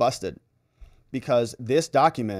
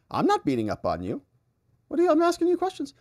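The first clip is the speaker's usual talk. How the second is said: mock protest; 13 semitones higher, faster than usual. Acted lawyer protesting to witness.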